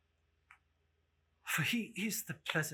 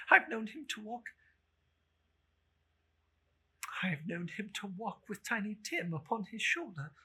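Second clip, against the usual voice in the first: a hint of a hesitant son; lightly voiced boy; 3 dB louder than usual. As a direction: answer mother gently. Peter answering mother.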